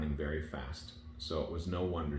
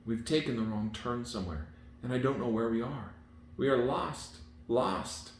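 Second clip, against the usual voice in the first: frightened nurse; 6 semitones higher than usual. A narrator's reading. Nurse admitting to the princess they are lost, in terror. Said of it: "The terror she was in".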